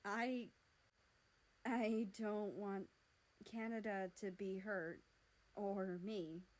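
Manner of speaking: slow, hesitant pleading; tearful plea. Acted. Mexico begging America for help, slow and tearful.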